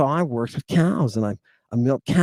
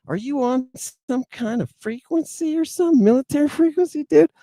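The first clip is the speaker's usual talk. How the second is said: pitched-up baffled question; high incredulous question; 10 semitones higher than usual. Retold or imitated. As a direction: ask it high in disbelief. Asking the odd roommate.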